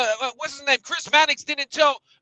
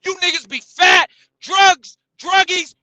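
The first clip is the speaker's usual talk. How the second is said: hammed-up yelling; 4 semitones higher, slower than usual. Yelling insults at his friends, hammed-up shouting. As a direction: bellow each word at them. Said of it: "it takes steroids to yell like this".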